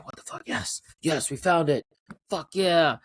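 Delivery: imitated growing excitement; building excitement. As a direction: start under the breath, build to celebrating. Players celebrate a second chance.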